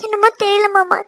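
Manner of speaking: acted weepy wife; crying. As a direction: explain it through welling tears. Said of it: "அழுக அழுகையா தான் வருது".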